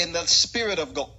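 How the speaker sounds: churchy "God", final consonant dropped; God without D. Shown as a demonstration. Questioning church habit, "God" said without the D. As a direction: quote the phrase with "God" cut short of its D. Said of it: "Why do we not say the D?".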